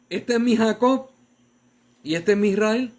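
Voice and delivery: put-on a father admits his faults to his kids; earnest parent's confession. Voicing a parent to children.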